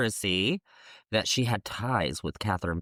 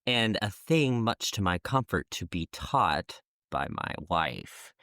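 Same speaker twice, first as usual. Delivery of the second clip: dry, sarcastic king; lightly sarcastic reading. Retold or imitated. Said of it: "So Henry says sarcastically".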